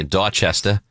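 Dorchester with dropped Rs, Boston style; Boston accent. Retold or imitated. Host showing how locals say their neighborhood, Boston accent. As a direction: say it like a Bostonian, "Dotchesta". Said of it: "which I believe they say".

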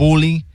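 Bully with a round oo vowel, like pool; mimicking his bully. Host copies cohost's bully, oo like pool. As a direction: copy his boo-lee for Bully. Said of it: "Do you hear when I say it like you".

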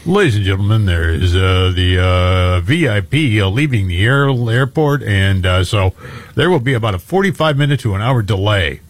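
lightly imitated captain on intercom; a hint of a pilot's cabin announcement. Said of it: "the captain comes on and goes".

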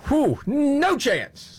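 slow, high sarcastic drawl; mock no chance. Host mocking the pundit's call, slow and high sarcastic.

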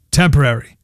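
emphasize TEMPORARY as a word standing alone; stress on TEMPORARY. Shown as a demonstration. Newsreader explaining a court ruling, emphasis on TEMPORARY. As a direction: set TEMPORARY apart after a pause, with emphasis. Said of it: "Emphasis on the word".

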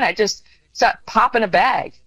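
ordinary talk, nothing marked

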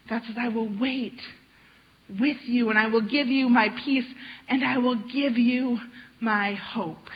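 gentle, tender promise of care; reassuring God. Acted. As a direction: speak as a loving God soothing a worried child. Voicing God's comforting words.

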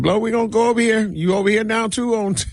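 high, fast squeaky imitation of fans; mock the fans in a high voice. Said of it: "they was like".

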